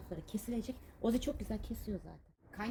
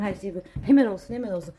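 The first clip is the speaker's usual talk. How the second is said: "hemen" hit louder each time; impatient insistence; 13 dB louder, faster than usual. Shown as a demonstration. Vlogger showing how impatient she is, loud insistent. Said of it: "Çok fenayım bu konuda".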